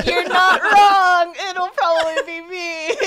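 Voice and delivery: loud laughing reply. Real, not acted. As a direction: laugh through the words. Laughing at painting joke.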